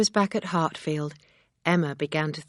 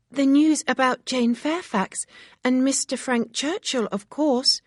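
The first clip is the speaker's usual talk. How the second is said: put-on high eager young girl's call; breathless eager maid; excited cry; 8 semitones higher, 4 dB louder than usual. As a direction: burst in with the news. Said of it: "Harriet cried".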